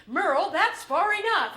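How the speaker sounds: loud, sharp warning to Merle; firm warning. Retold or imitated. Mother warning the father at the wheel, firm and loud. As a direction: tell him to stop, firmly. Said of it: "my mom's like".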